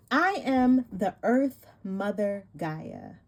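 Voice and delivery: slow, solemn card reading; warm serene goddess voice. Acted. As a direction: read it like a sacred invocation. Reads goddess card text aloud.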